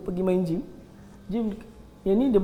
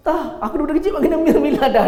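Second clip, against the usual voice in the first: imitating insistence; 7 semitones higher, 5 dB louder than usual. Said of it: "dia kata".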